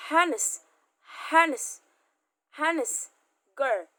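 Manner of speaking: honest said as anest, no h, loud; silent h in honest. Shown as a demonstration. Teacher showing students the silent h in honest. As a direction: drop the h in honest. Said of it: "H-nya hilang ya".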